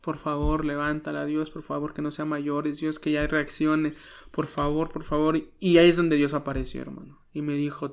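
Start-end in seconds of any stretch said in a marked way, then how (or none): 0.0-5.4 soft, retold pleading prayer; tearful plea. Son praying in the hospital bathroom, soft tearful plea. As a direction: beg quietly, as if holding back tears. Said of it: "estaba llorando y le dije".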